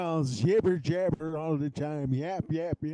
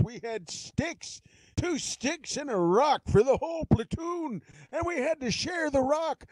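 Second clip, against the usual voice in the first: put-on gruff old Marine; 3 semitones higher than usual. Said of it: "Still have to be gruff".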